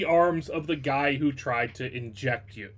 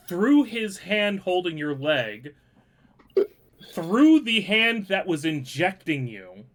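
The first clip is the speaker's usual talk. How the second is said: dramatic, paused blow-by-blow narration; game master narration; 4 semitones higher than usual. Acted. Game master describes a player's killing blow, dramatic narration. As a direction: punch each action, pausing between the cuts.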